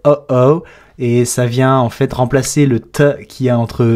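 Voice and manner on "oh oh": oh oh with a catch in the throat; glottal stop demo. Shown as a demonstration. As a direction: cut the air off between the two oh sounds. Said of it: "c'est le même son que quand vous faites".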